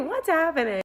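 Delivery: high, quick, uneasy question; high-pitched nervous reaction; mock alarm. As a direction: squeak it out, hammed-up unease. Acted alarm as stranger starts scrolling.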